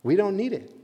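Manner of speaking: proud dismissal. Retold or imitated. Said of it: "the pride of humanity says to God".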